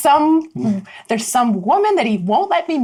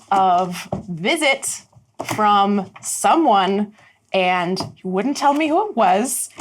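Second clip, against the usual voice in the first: darkened Rosie. Acted. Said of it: "She's like".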